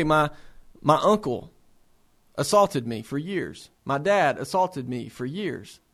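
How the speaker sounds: low, halting, subdued patient voice; understated, slowed retelling of a painful confession; retold abuse disclosure. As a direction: let each admission fall low, with pauses.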